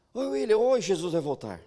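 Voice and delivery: put-on a keen teenager bursting with news; cheerful announcement. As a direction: burst in on your friends with big news. Greeting classmates with his message.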